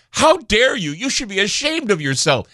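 high, shrill mock outrage; mock outraged critics. Host parroting angry online commenters in a high mock-outraged voice. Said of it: "people are, like, going".

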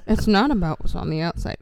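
loud, voiced mock moral; mock emphatic. Mocking the movie's heavy motif, loud and emphatic. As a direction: repeat the lesson loudly.

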